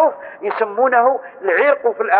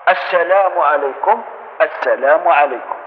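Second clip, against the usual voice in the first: correct gentle salam; 4 semitones lower, slower than usual. Shown as a demonstration. Teacher showing worshippers the right salam, slow and gentle. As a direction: turn just the cheek, slowly. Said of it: "الخد اللي يدور فقط".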